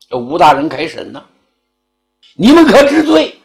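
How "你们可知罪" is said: stern magistrate. Acted. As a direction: ring it out from the bench. Magistrate opens the trial. (升堂厉声喝问)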